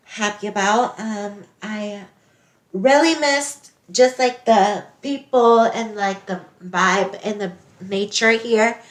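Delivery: put-on a botched South African accent, drifting toward Nigerian; light South African accent attempt. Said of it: "this is her South African accent".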